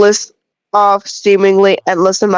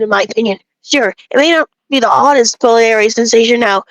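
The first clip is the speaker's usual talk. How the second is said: a lightly voiced village know-it-all, preachy about grain; bread-obsessed villager; 3 semitones higher than usual. Lightly voiced villager lecturing the player about bread, smug. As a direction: play a self-important bread snob lecturing a traveler.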